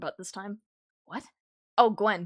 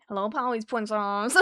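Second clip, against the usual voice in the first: Princess voice; 3 dB louder than usual. Retold or imitated. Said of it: "heard the Princess voice".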